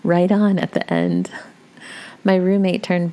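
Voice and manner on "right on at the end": cold and deliberate, slowed down; icy, measured delivery. Retold or imitated. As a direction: say it coolly, slowly, deadpan. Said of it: "in a cold tone".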